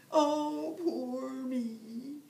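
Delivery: high, loud mock wail of self-pity. Hungry husband fearing starvation, a hammed-up high wail. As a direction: howl at your own bad luck. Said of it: "wailed Jamie".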